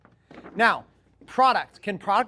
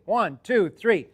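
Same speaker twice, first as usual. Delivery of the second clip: count-in call; much slower than usual. Shown as a demonstration. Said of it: "On the count of three".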